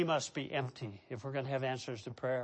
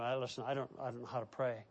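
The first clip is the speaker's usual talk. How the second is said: hesitant new believer; 5 semitones lower, 9 dB quieter, faster than usual. Retold or imitated. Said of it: "he'll say to me".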